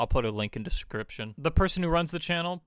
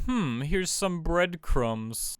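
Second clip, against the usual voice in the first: slow, teasing writers dropping clues; sly hint; 4 semitones higher, much slower than usual. Retold or imitated. Writers teasing the audience, slow and sly. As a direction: draw it out like hinting at a secret. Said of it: "They said".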